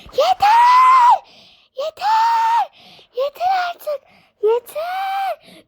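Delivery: screamed high and loud, raging; furious shout. Pretend. Witch screaming at the noisy kids, furious shout. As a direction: scream at them to stop.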